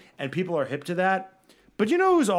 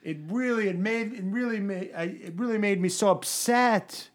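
mock Alonso; 4 semitones higher than usual. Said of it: "Oh, I can't do a Spanish accent".

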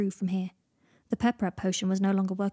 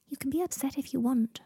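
gentle whisper; 5 semitones higher than usual. Acted. Comforting a dying friend.

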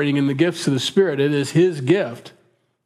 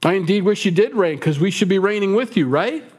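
higher, pointed irony; sarcastic; 6 semitones higher than usual. Retold or imitated. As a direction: ironic wish, pitched up. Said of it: "He's being sarcastic".

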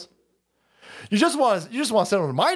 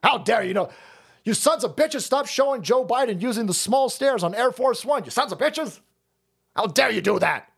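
high-pitched indignant scolding; raised-pitch "how dare you" indignation; mock outrage; 5 semitones higher than usual.

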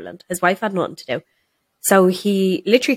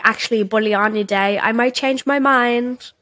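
mock boss; 4 semitones higher than usual. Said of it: "she was like".

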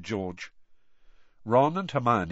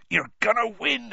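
higher, lifted and hopeful on win; eager gamekeeper insisting on victory; Hagrid cheering on; 12 semitones higher than usual. Acted. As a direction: push the belief up on "win". Hagrid reassures Harry.

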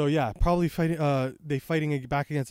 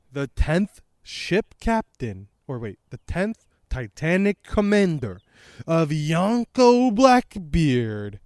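grand introduction; 5 dB louder, slower than usual. Pretend. Grand introduction of new commander.

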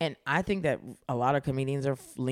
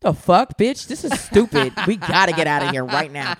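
annoyed; 7 dB louder than usual. Shown as a demonstration. Showing friends how the voice changes when bothered, loudly annoyed. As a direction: snap it like you're fed up. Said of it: "I'm probably annoyed".

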